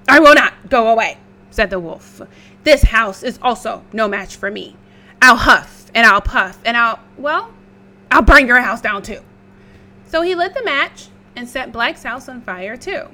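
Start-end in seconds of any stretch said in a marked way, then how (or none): 0.1-9.2 loud fast wolf threat. Acted. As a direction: snap it out like a greedy wolf.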